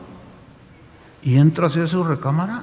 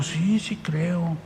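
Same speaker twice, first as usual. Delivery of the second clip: quiet slow reply; 7 dB quieter, much slower than usual. Retold or imitated. Voicing the sick woman.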